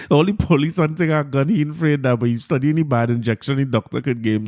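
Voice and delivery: ordinary talk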